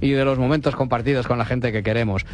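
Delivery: smooth radio advert voice; ad read. Acted. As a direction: sell it like a radio spot.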